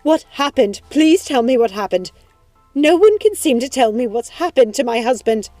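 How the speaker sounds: loud, high desperate pleading; insistent, distraught outburst; frantic demand. Acted. Wife demands news of her husband.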